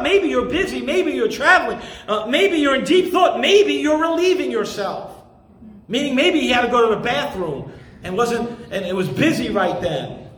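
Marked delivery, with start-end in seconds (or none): 0.0-5.1 mocking taunt. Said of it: "He mocked him".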